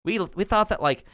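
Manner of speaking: high chill gnome, lazy "like" fillers; valley girl gnome. Acted. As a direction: talk like a laid-back valley girl. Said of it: "Clotilda says".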